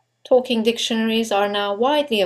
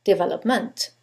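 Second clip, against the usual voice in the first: "development" ending on a hit MENT; developMENT, asked with a rising tune; stress on last syllable. Shown as a demonstration. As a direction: land hard on MENT in "development". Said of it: "Or the last syllable".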